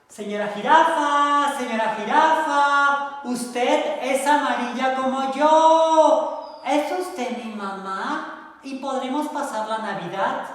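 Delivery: high, loud, slow little duck voice; little duckling voice. Acted. Duckling Choco asks the giraffe to be her mother, high. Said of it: "duckling Choco asks giraffe".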